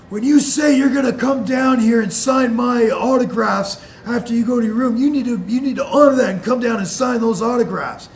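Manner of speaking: loud, high, demanding caller voice; angry phone shout. Retold or imitated. Prank caller demanding autographs, loud shout. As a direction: bark it at him like an entitled fan.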